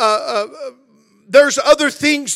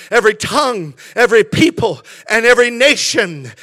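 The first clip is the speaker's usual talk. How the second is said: declaimed Bible reading with punched key words; scripture reading; 3 semitones higher, 4 dB louder than usual. Real, not acted. Preacher reads Revelation to the congregation, declaimed with preaching force. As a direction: proclaim the verse in strong, measured phrases.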